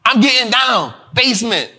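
punchy one-word tag endings; mock old-school rap delivery in the style of a famous rapper; hyping like an early-career rapper; old-school rap bars. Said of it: "You remember that version of Nicki?".

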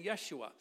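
Yeshua said as yeh-SHOO-ah; "Yeshua" with a sh in the middle, ending in oo-ah; Hebrew pronunciation. Shown as a demonstration. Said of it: "that's how they said it".

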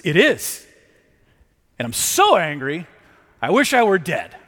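mild indignant protest from a sulking prophet; indignant Jonah. Retold or imitated. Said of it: "indignant Jonah says".

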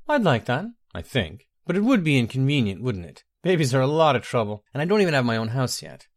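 lightly voiced teenage elf girl, musing.

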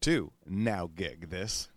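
upbeat radio ad read. Acted. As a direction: sell it like a radio spot. Host reads sponsor ad.

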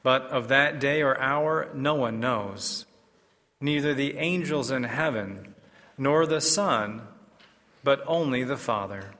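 formal liturgical proclamation; measured, solemn scripture reading; Gospel reading. Acted.

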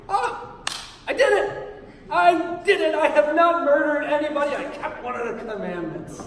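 high, loud, hammed-up delight; triumphant young person. Young person finding a commandment they kept, mock triumphant. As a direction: crow over a small victory, easing off at the end. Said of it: "especially younger people will look and".

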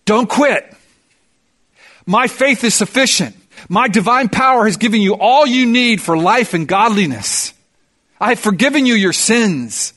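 God and Peter calling up from the ground, encouraging; encouraging shout from below. Acted. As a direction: call up to someone stuck on a ledge, urging them on. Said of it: "they're shouting up at you".

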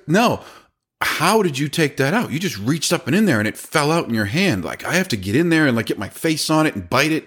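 high-pitched, astonished protest; incredulous trainee. Retold or imitated. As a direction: imitate a baffled trainee, pitched well up. Acts out amazed trainee.

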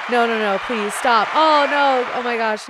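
mock protest at the praise, gushing; flustered squeal. Mock modest reaction to applause.

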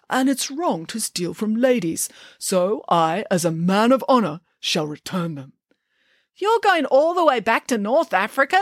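steady, dignified hero; lightly voiced honourable hero; a touch of pompous nobility; earnest Hercules voice.

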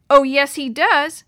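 loud, slow, forceful blurt. A narrator's reading. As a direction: blurt it out defiantly. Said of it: "Maria blurted".

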